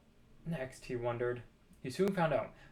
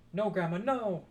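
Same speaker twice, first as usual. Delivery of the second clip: calling back; 3 semitones higher, 5 dB louder than usual. A narrator's reading. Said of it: "George called back".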